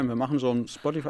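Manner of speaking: talking while eating; words round a bite of food; mouth full. Real, not acted. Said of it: "ich esse grad ein bisschen nebenher".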